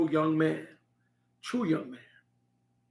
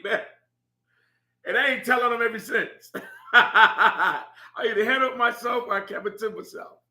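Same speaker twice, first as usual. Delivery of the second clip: chuckling through the words, a bit faster; amused disbelief, laughing as he speaks; laughing while telling; 2 semitones higher than usual. Real, not acted. Laughing over son's slap.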